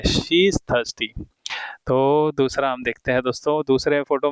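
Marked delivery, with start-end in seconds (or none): 0.0-1.1 very slow, every word separate; slow repeat. Shown as a demonstration. Teacher repeating the answer to students, very slowly. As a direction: drag it out for the class. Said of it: "वो काफ़ी प्यासी है".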